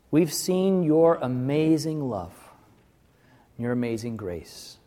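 prayer. Acted. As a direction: pray gently over the congregation. Closing prayer.

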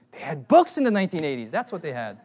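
ordinary talk, nothing marked

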